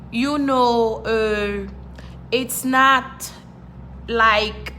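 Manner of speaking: halting, with gaps between fragments; struggling for words. Retold or imitated. Newcomer trying to explain a problem, halting and stuck. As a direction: act out words that won't come out. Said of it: "Trying to come out".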